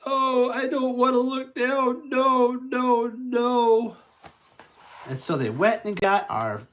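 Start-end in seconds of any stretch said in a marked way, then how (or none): 0.0-4.0 high, fearful no no no; scared Tigger. Acted. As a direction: refuse to look down in fear. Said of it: "He's like".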